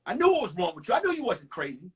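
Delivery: mock the father's knowing lecture. Dad lecturing his son about the girl, lightly voiced. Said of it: "He said".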